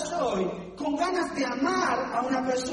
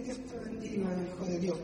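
fake sweet blessing; 6 semitones lower, 6 dB quieter than usual.

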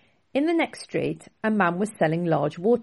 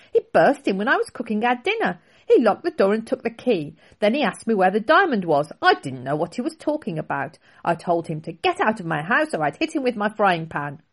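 higher, louder grandmother voice; lightly voiced indignant old lady; 4 semitones higher, 5 dB louder than usual. Grandmother telling the boys about the intruder, mildly indignant. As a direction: tell it with mild outrage. Grandmother continues her story.

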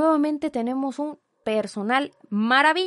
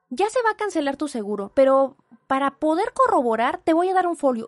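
operator voice, louder at the end; mock hurried operator; 4 semitones higher, 6 dB louder than usual. Imitating the operator brushing her off, a bit louder. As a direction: rattle it off like a rushed agent.

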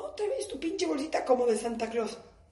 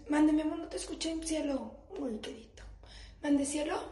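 lightly voiced feigned innocence; playing dumb sweetly; 3 semitones higher, 3 dB quieter than usual. Shown as a demonstration. Wife dodging husband's request, mock innocent sweetness. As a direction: sweetly pretend not to hear. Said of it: "Hagan la misma cara de pendejos".

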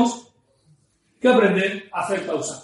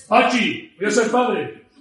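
northern Spanish; slower than usual. Acted. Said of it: "Imaginaros en el norte".

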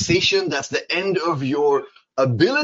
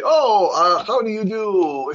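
raised, brighter polite greeting; model reply; 7 semitones higher, 4 dB louder, slower than usual. Shown as a demonstration. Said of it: "And you want to say".

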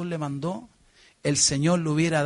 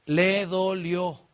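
very slow, weighty le dolió; grave; much slower than usual. Acted. Preacher telling the church the young man hurt, very slow. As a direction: let it sink in slowly. Grave pause on rich youth's pain.

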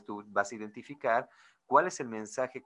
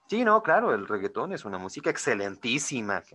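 sarcastic praise of reggaeton; 5 dB louder than usual. Shown as a demonstration. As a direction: say it so it means the opposite. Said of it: "Pero mi entonación, mi tono de voz".

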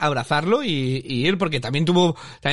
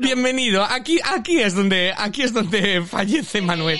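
slow, higher, drawn-out mock announcement; mock ominous host; 4 semitones higher, slower than usual. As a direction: announce the doom slowly, a touch theatrical. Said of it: "le dice". (presentadora anunciando la condena, despacio y teatral)

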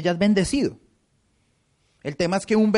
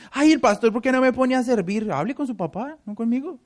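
priest's complaint; 5 semitones higher than usual. Retold or imitated. Pastor voices the priest complaining to him, higher mild whine. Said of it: "el padre es el que me dice".

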